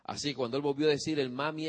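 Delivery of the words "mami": violin-like whine. Retold or imitated. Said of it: "ese tipo violín".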